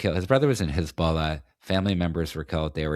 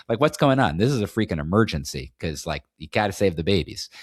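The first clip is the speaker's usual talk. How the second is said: raised, urgent alarmed questions; alarmed outcry. Pretend. Podcaster voicing the article he wishes were written, alarmed and urgent. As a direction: sound the alarm like a frantic headline writer. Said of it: "The, the article should be like".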